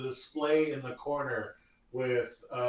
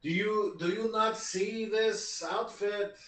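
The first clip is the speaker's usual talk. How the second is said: put-on Eastern European accent; 5 semitones higher than usual. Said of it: "less of a Eastern European".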